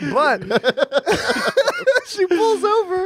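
high, giggling through the words; can barely get it out for laughing. Real, not acted. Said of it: "No, I'm funny, y'all".

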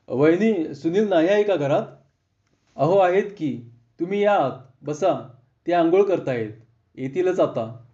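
a gentle hint of a cheerful hostess inviting him in; hospitable friend's wife. Friend's wife greets visitor.

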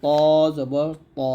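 thick, rounded "ত" in "জবর ত"; heavy letter. Shown as a demonstration. Teacher showing learners the letter, "ত" said heavy. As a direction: say "ত" heavy, tongue tip behind upper teeth. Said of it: "বলতে হবে মোটা করে".

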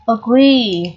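agree, clearly drawn out at the end; long final EE. Shown as a demonstration. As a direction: agree with its last vowel held, "agreee". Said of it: "được phát âm là âm Y dài".

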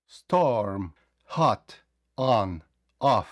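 "Storm, hot, on, off" with dropped jaw, lips unrounded; опущена щелепа. Shown as a demonstration. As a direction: open O in "hot, on, off", said word by word. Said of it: "опустити нижню щелепу". («hot, on, off» з опущеною щелепою, без округлення губ)

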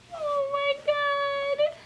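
hammed-up thin, weepy wail; tearful cooing. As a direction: squeak it out as if welling up. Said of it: "I wanna cry with her".

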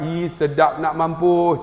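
slow, drawn-out northern Malay mampus; northern in-law drawl. Retold or imitated. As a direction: mimic the father-in-law savouring the food, slow. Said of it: "dia makan-makan".

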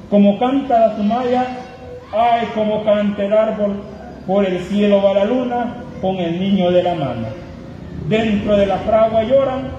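impassioned dramatic poem recital; spanish poetry declamation. Acted. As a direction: declaim it, swelling on the cries. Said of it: "voy a declamar o voy a recitar".

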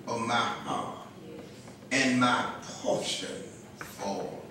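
measured, solemn Bible reading; scripture reading. Acted. Pastor reads scripture to the congregation, solemn and measured. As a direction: read the psalm aloud with deliberate pauses.

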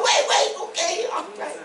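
high-pitched, hurried mock backing-off; imitated alarm. Startled young man to the screaming woman, mock alarm.

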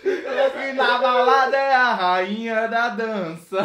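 helium voice. Real, not acted. Singing after inhaling helium.

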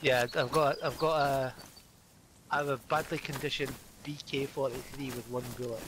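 thick Scottish accent. Real, not acted. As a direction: say it in broad Scottish. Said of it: "you can hear the Scottish very well".

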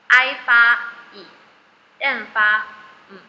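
slow letter-by-letter sounding. Shown as a demonstration. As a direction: spell each sound out slowly, I then M. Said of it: "来". (慢慢逐个发音)

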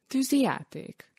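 put-on the boy repeats Tűzijáték in curious disbelief; curious question. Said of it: "Nézett kíváncsi szemmel". (kíváncsi, csodálkozó kérdés)

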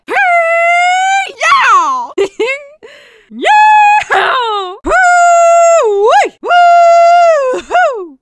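high, loud whooping and hollering; triumphant cowgirl yee-haw; victory whoops. Acted. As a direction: whoop like you just won the rodeo.

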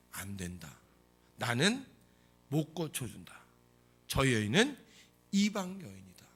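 measured refusal in short, separated phrases; lightly voiced stern master, pausing between phrases; 예수님의 거절. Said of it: "그런데 예수님이". (끊어 말하는 단호한 거절)

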